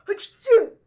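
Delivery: loud, hammed-up sneeze; a big fake achoo; mock sneeze. And he goes.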